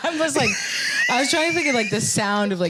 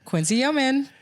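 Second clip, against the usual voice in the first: lightly raised show-host pitch; comedy show host; 5 semitones higher than usual. Real, not acted. Co-host introducing himself to podcast listeners, comedy show host voice. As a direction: introduce yourself with your voice going up. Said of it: "my voice goes up and I go in my comedy show host voice".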